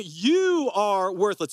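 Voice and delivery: slow, cold, crushing verdict; mock berating. Missionary shaming the boy before the crowd, slow and cutting. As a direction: drag out each word to shame him. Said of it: "He yelled at me".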